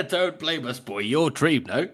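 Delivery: high, mocking character voice; taunting voice. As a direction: sneer it in a high voice.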